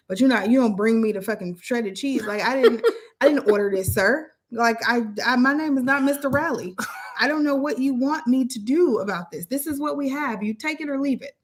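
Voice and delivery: loud, high exasperated rant; venting. Acted. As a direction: let the frustration rip.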